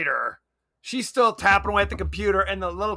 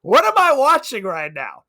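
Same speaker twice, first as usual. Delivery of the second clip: baffled disbelief; 5 semitones higher, 7 dB louder than usual. Retold or imitated. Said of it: "I'm like".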